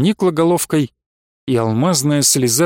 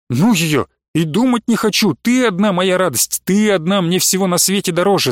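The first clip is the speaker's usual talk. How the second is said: страстно; 3 semitones higher than usual. Acted. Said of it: "со страстным увлечением говорил".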